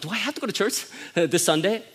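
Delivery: son's question broken by a laugh. Retold or imitated. Son asks dad about church, laughing. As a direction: say it through a chuckle. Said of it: "he was like, almost".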